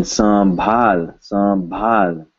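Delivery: "sambhal" with nasal vowel closing into m; audible M. Shown as a demonstration. Teacher giving an example to students, audible M. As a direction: sound an m before bh in "sambhal". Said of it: "you will hear an M".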